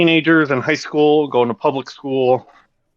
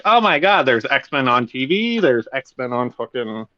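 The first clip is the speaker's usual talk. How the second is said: put-on excited kid; 3 semitones higher than usual. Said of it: "so kids can be like".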